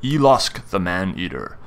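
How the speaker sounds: measured storyteller's scene setting; game master narration. Acted.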